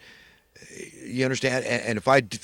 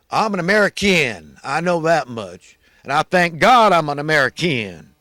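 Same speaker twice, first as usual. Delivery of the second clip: louder, higher proud statement; proud declaration; 3 semitones higher, 7 dB louder than usual. Real, not acted. Speaker insists he thanks God he's American, proud loud declaration. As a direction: proclaim it with full pride.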